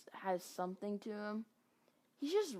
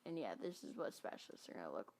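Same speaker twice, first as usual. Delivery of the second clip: speaking between hiccups; real hiccups breaking the words; 3 semitones lower, 9 dB quieter, faster than usual. Real, not acted. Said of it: "these hiccups are so annoying".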